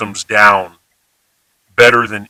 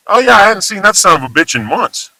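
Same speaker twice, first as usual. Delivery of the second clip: neutral example; 8 semitones higher than usual. Shown as a demonstration. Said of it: "completely neutral context".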